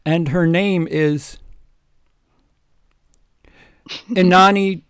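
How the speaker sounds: dramatic announcement. Acted. Dramatic voiced Dumbledore speech.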